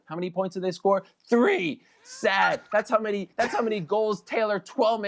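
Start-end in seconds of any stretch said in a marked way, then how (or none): 1.3-4.6 gloating. Real, not acted. Gloating over rival score.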